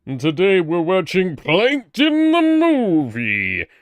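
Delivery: lightly voiced villain announcer; hammy villain host voice; Cell voice. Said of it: "Why are you doing your Cell voice?".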